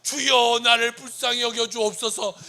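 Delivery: loud pleading cry; pleading prayer. Acted. Preacher modeling a humble cry to the Lord, loud plea.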